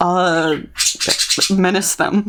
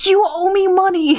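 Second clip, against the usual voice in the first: mock yell, pitched up high; retold yell; 10 semitones higher than usual. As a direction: yell it at the demon in fun. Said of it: "And then I just yelled".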